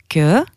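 que said as "keu"; hard k plus short eu for que; que as a rising "kuh"; Albanian K sound. Shown as a demonstration. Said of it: "ça se prononce".

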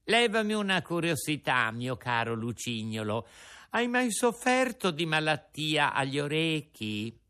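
a lightly sugary, sing-song puppet voice; sweet fluting little voice. Acted. Puppet sweetly asking his companion a favour, honeyed. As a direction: coax him with honeyed sweetness. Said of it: "con una vocina melliflua e flautata".

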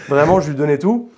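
laughing. Real, not acted. Laughing at own story.

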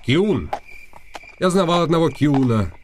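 a noble talking down to a commoner; haughty noble. Acted. Rumata voiced as aristocrat. (надменный дворянин, выше)

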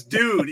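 "dude" with a long, stretched "oo"; drawn-out "dude". Retold or imitated. Mimicking how a friend texts, slow long-vowelled "dude". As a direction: stretch "dude" out as if spelt "dood". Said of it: "D O O D, dude".

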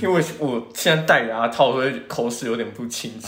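slightly slurred speech through braces; wearing braces. Real, not acted. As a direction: talk around braces on the teeth.

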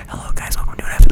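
hushed whisper into the mic; whispered podcast intro; ASMR whisper. Shown as a demonstration. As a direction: greet listeners in an ASMR whisper. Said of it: "A S M R, guys".

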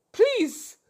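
high, loud begging cry; mock plea. Host begs Ebitimi to come save her, mock pleading. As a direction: beg to be rescued, playfully.

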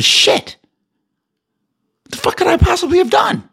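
real outraged shout at the sky; exasperated shout. Real, not acted. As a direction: yell it out in sheer frustration. Outraged rant at ex-friend.

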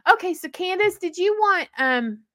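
high mother's voice, trailing into a pause. Retold or imitated. Mother asking daughter, high voice fading into pause. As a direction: sing the name, then drift off. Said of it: "she'd go".

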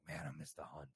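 put-on a married drunk friend's longing murmur; low, lusty tone. A drunk married friend confiding, low and wistful. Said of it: "You say it in that tone".

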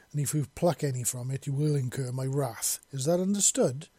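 imperious mistress giving instructions; a hint of haughty authority; lightly voiced bird mistress. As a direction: instruct a servant, firmly and precisely. Bird mistress warns her servant.

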